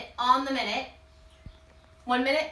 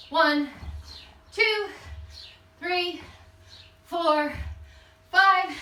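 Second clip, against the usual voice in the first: higher-pitched count during jump squats; calling out reps; 4 semitones higher, much slower than usual. Real, not acted. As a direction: call each rep out with effort. Coach calls out exercise reps while jumping.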